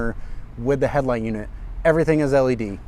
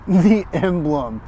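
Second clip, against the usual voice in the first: slow amused chuckle; 4 semitones higher, much slower than usual. Real, not acted. Chuckling at the emblem size.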